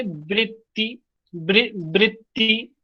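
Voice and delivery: वृत्ति with the vocalic ri sound; teacher modelling the word; correct vritti. Shown as a demonstration. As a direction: stress the वृ at the start of वृत्ति. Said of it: "वृत्ति नहीं कहते".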